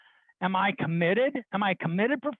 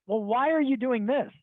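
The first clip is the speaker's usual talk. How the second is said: higher-pitched, baffled question; retold bewildered challenge; incredulous; 6 semitones higher than usual. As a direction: act out disbelief at his choice. Acts out his disbelief at career change.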